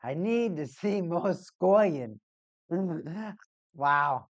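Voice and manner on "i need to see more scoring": mock Boston accent, slow and drawn out; a hint of a Boston accent; Boston coach voice. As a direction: do a Boston coach demanding goals. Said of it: "just imagine a Boston coach".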